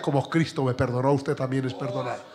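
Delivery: a hint of crying; tearful husband. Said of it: "el hombre llorando le decía".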